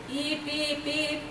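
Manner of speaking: mild squeaky puppy yelps, lightly voiced; puppy crying. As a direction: imitate a little dog's whimper, gently. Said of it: "Like this, he is crying".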